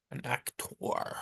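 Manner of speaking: very soft, drawn-out, whispery "actor"; affected aside. Shown as a demonstration. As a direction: say "actor" slowly under your breath, weight on the last syllable. Repeats the word in affected aside.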